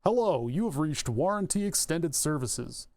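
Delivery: slow, careful phone menu voice; automated operator voice. Shown as a demonstration. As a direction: enunciate like a phone robot. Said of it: "I sound like an automated operator".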